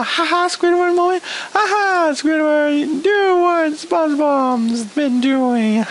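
mock gloating "ha ha"; gloating taunt. Reviewer mimics how viewers should feel about Squidward, gloating taunt. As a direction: jeer it in a drawn-out singsong taunt. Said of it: "I'm supposed to be feeling a".

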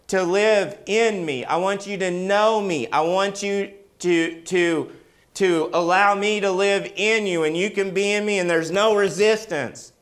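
preacher voicing Jesus over music, growing to a soaring close; tender voicing of Jesus. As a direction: plead as Jesus, swelling to "We are one". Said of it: "He wasn't just saying".

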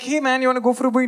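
eager invite. Retold or imitated. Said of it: "I'm like".

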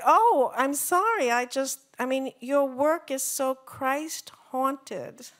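mock apologetic organizer. Quoting the organizer's reply.

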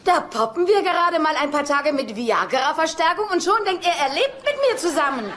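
fed-up woman ranting to friends; exasperated rant. Acted.

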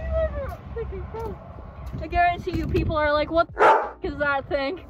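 muffled through mascot head; laughing inside costume head. Real, not acted. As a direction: voice behind full head mask. Seen 4: Costume head worn over face throughout; mouth hidden inside the head.

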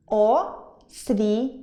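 «Освіта» drawn out slowly by syllables; «Освіта» split into three slow syllables, о-сві-та; slow syllable demo. Shown as a demonstration. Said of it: "Також три склади". («Освіта» повільно по складах)

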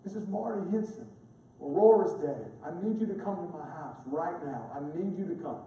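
a hint of the weeping father's plea, hushed; sobbing father. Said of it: "sobbing, crying".

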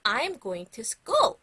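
loud, slow sentence for repeating; slow, clear teacher's call; loud model phrase. Shown as a demonstration. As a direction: project it slowly for the class. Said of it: "선생님이 큰 소리로 먼저 얘기해 볼".

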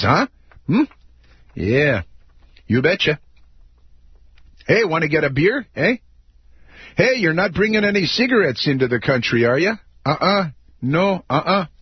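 hokey Canadian, you betcha and eh; teasing Canadian accent; mock Canadian accent. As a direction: clown a friendly Canadian border guard. Mocking Canadians at the border.

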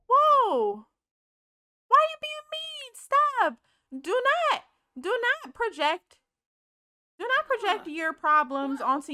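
high, loud exasperated scolding; yelling at Sims. Real, not acted. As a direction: scold the Sims like a fed-up mom. Yelling at her fighting Sims.

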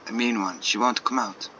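lightly put-on French accent. Artist complaining about the stubborn bunny, French accent. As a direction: grumble in an amateur French accent. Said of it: "so many shit French accents".

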